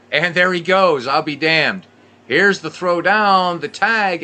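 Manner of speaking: thrilled announcer yelling the steal; excited stolen-base call. Acted. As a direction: burst out as the runner goes. Stolen base called live.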